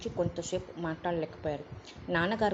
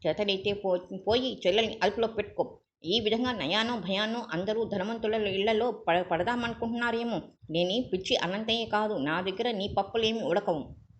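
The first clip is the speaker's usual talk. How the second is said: angry tirade; 3 semitones higher than usual. Acted. Father berates visitor.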